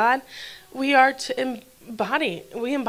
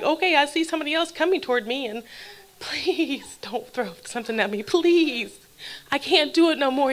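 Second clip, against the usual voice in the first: begging; 2 semitones higher than usual. Acted. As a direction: plead as the poor man would. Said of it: "begging and pleading with God".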